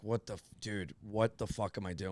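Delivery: stunned realisation under the breath; quiet retold disbelief; shocked muttering. Retells own shocked thought.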